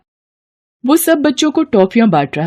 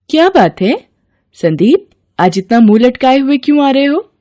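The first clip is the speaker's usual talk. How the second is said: higher, concerned mother's voice; caring mother; 5 semitones higher than usual. Acted. Mother asks her sad son why he's glum, concerned. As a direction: ask the sulking son gently.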